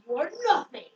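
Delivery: mock-villain line, pitch lifted on NOTHING; mock menace. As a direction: retell it like a dramatic villain. Villain's line acted in plot retelling.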